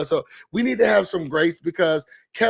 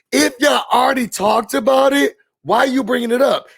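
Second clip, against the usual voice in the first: loud and higher, fed up; exasperated shout; 5 semitones higher, 3 dB louder than usual. Real, not acted. Ranting about the old argument, loud and exasperated. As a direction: demand an answer. Venting at the show.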